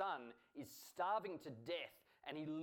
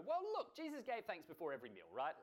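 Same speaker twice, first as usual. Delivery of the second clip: mock offhand objector; imagined dismissive listener; 3 semitones higher, faster than usual. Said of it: "you might look at that and just go".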